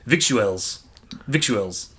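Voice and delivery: slow "victuals" in New Zealand accent. Shown as a demonstration. Trying the word for co-host, New Zealand accent. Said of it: "Say victuals in a New Zealand accent".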